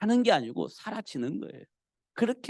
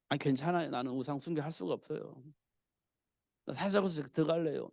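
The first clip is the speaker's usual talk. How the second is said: soft, lower, composed reply; calm refusal; 3 semitones lower, 7 dB quieter than usual. Acted. Preacher plays Daniel refusing the king, calmly. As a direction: decline gently as unshaken Daniel.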